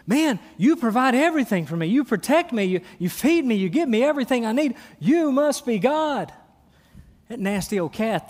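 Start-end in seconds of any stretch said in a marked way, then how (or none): 0.1-6.3 a bit higher and faster, gushing gratitude; lightly voiced adoring dog, slowing on the last line; excited dog voice. Preacher playing the grateful little dog, eager and bright. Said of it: "he thinks you're God".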